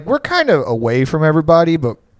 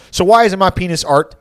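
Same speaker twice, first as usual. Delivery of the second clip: high, loud indignant challenge; mock Xanax rage; 6 semitones higher, 5 dB louder than usual. Drunk friend demanding why he isn't art, mock rage. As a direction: imitate a drugged friend's outraged argument. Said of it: "like Xanax rage".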